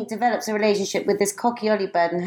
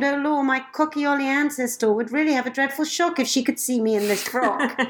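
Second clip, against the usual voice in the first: higher, fussing bird-lady voice; Missus C exclaiming; 6 semitones higher than usual. Acted. Reader voicing the dismayed Cockaioli mother, higher and fussing. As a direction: fret like a flustered mother hen turned lady. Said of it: "Poor Missus C exclaimed".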